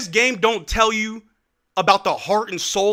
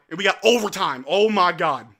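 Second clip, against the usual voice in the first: ordinary delivery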